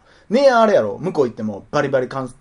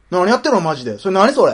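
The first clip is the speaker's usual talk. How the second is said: scary questioner; 5 semitones higher, 4 dB louder than usual. Retold or imitated. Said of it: "怖いよ、そんなん".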